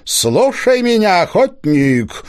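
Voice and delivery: high, slow, ringing command of a forest spirit; ringing booming voice. A narrator's reading. Spirit voice from the hollow commanding the hunter, ringing and rolling. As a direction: boom it out like a hidden spirit. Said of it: "голос был звонкий и раскатистый".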